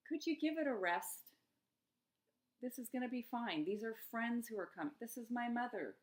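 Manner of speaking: lighthearted answer to the inner critic; playful humor. Pretend. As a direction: talk back to the nagging voice with a laugh in it. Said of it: "you could bring humor to the situation".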